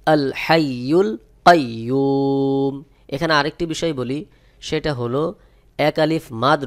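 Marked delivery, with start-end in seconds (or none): 0.1-2.7 কাইয়ুম ending on a silent মিম, recited slowly; stopped with sukun. Shown as a demonstration. Teacher showing students the correct stop on কাইয়ুম. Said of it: "সহি উচ্চারণ হবে".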